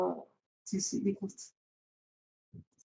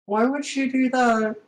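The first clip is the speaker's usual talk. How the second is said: ordinary delivery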